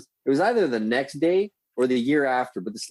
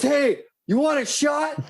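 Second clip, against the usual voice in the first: buddy offering shot; slower than usual. Retold or imitated. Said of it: "and he goes".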